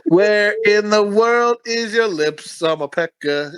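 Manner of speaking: slow, drawn-out mock villain line; slow mock quote. Friend parodying the movie radio DJ, slow taunt.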